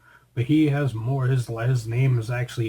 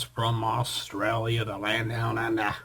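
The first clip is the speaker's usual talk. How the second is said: put-on Australian accent; 4 dB quieter than usual. Host to co-host, joking Aussie accent, lightly done. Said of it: "You don't think I sounded like an Australian there?".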